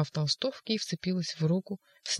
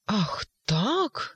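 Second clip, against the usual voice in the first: hunted cry; 4 semitones higher than usual. Acted. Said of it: "дико и затравленно озираясь".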